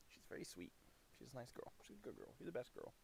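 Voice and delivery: soft, high coo of praise; cooing to dog. Real, not acted.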